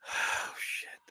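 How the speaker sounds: hushed whispered curse; soft whispered swear; whispered aside. Real, not acted. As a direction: breathe it under your breath. Muttered aside while reading.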